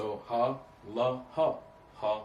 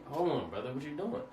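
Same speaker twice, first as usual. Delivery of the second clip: mock Abraham; 4 semitones higher than usual. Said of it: "He's like".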